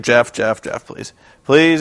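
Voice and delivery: low, hushed calming plea; calm pleading. Retold or imitated. Eric calming down an angry Jeff, hushed and low. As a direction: soothe an angry man, half whispered. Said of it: "he's very calm".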